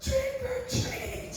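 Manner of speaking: put-on slow, high-pitched kid voice; child trick-or-treater. Little kids at her door begging for candy, drawn-out high child voice.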